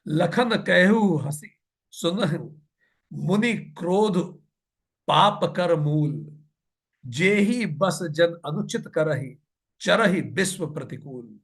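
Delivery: slow, drawn-out scripture chanting; measured devotional verse reading; verse recitation. Acted. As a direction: recite the couplet slowly, stretching each word.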